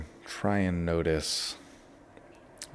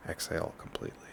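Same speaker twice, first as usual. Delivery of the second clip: guided relaxation; 6 dB quieter than usual. Shown as a demonstration. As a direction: ease them through each breath, leaving long pauses. Leads a breathing relaxation.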